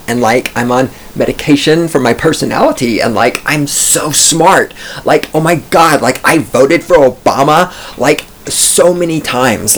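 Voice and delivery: ditzy college-girl impression, rising emphasis on "so"; medicated college kid. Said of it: "That's my medicated generation impersonation".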